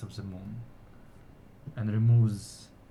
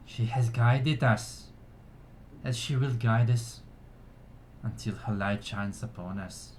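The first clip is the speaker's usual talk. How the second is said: measured ceremonial address to a gathering; solemn, projected speech of thanks; elf orator. Acted. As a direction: proclaim it to your people with pauses. Elf's ceremonial speech continues.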